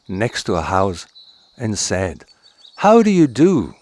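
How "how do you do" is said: vixen's greeting. Acted.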